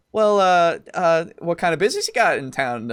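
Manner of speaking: curious shopkeeper. Acted. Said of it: "she's like".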